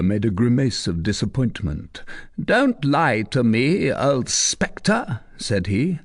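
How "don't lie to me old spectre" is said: slow, firm warning; stern commander. Acted. Commander warning the recluse, stern and slow. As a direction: threaten her slowly.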